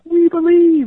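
high, loud mock crowd cheer; crowd shouting. The crowd shouting back to Blondin, high and loud. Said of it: "And they're shouting and they're cheering".

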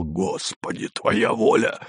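soft, rasping, near-unvoiced gasp; hoarse wheeze. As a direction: croak it out in horror. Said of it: "прохрипел".

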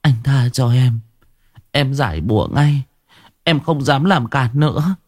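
put-on weak, contrite girl's plea; exhausted. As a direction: beg for mercy, utterly spent. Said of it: "mệt mỏi".

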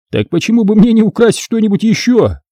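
high, animated retort; exclaiming. A narrator's reading. Dan keeps up his exclamation.

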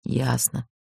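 soft, resigned "Ясно"; sighed assent. A narrator's reading. Man on the right gives in, sighing quietly. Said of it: "вздохнули справа".

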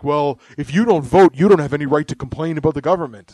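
a lightly voiced know-it-all voter, rattled off fast; quick, lightly mocking lecture on voting duty; mock preachy voter. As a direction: sneer it like a smug election scold. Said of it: "They're just like".

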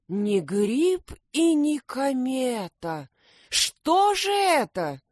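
high, slow helpless plea; unhappy hedgehog. A narrator's reading. Miserable hedgehog asks the detectives what it is. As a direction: spread paws in despair. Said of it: "развёл лапами несчастный Лукум".

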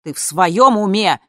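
loud indignant yell. Acted. Mother yelling at her daughter, indignant yell. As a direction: bark the question at her in disbelief. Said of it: "заорала мама".

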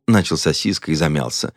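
ordinary delivery

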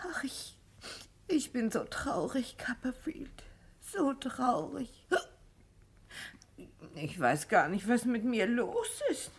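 whispered, close to tears; a sad, whispered confession; tearful whisper. Acted. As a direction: breathe it out, fighting tears. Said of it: "Bitte, weinen Sie nicht".

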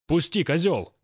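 put-on high, loud kid's yell; spoiled brat screaming to be let go; shrieking child. A narrator's reading. Kid screaming at the watchman. (мальчишка вопит сторожу: высокий громкий визг)

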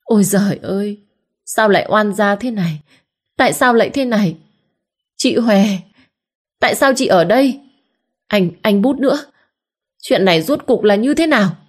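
high, theatrical wailing; wailing lament. Acted. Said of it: "bù lu bù loa". (bù lu bù loa, ăn vạ)

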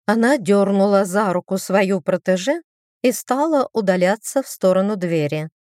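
plain reading voice

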